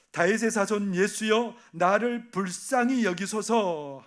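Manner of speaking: slow, drawn-out plea, stress on 불쌍히; calling out for mercy. Retold or imitated. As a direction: cry each word out slowly to Jesus. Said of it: "소리질러 이르되". (느리게 외치는 간구)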